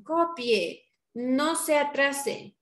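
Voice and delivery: teacher's order. Shown as a demonstration. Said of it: "estoy dando una orden".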